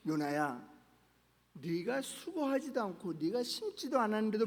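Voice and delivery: God gently pleading with Jonah, soft and tender; quiet and tender. Retold or imitated. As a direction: coax him gently like a loving father. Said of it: "조용히 그리고 따뜻하게 알려주고".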